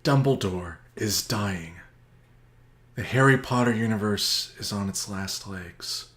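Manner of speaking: grave, slow trailer-voice storytelling; mock-epic narration. Summarizing Endgame to his cohost as a grim epic saga. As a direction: tell it like a doom-laden epic.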